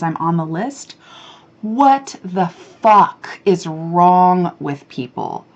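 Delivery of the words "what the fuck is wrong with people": slow, drawn-out disgusted question; exasperated rant. Real, not acted. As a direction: let the irritation drag every word. Ranting about spam group texts.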